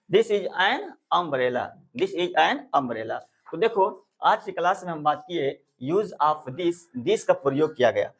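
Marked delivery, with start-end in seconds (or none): 0.1-3.2 slow model sentence. Shown as a demonstration. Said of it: "teacher models answer slowly".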